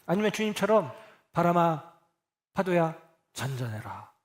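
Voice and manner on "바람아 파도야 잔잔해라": a mildly imitated stern command to the sea; understated majestic command; solemn command. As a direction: issue the order with grave authority, lightly voiced. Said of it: "라고 근엄하게 명령하는 게".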